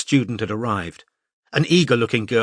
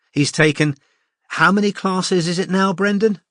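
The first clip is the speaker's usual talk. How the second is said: a hint of a brisk, friendly art teacher, slightly higher; lightly voiced cheerful teacher; 8 semitones higher than usual. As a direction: address the class like a confident tutor. Mariam asks Brendan.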